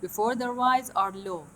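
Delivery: slow dictation. Shown as a demonstration. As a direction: dictate it slowly. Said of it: "هذا rise".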